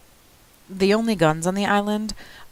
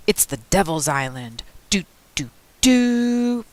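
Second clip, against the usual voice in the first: deep spooky voice; 3 semitones higher, 3 dB louder than usual. A narrator's reading. Best friend joking about the island like radio, deep spooky voice. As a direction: play up the spooky radio sting. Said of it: "Pete would say in a deep, spooky voice".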